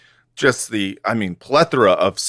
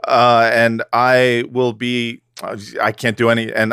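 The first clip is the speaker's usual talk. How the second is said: fake French; slower than usual. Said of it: "I'll be your world's most moral co-host, but Frenchly".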